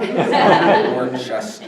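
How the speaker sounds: Worcester said slowly as Boston "Wuss-tah"; drawn-out Boston Worcester, laughing; Boston accent. Shown as a demonstration. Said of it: "pronounced in a Boston accent".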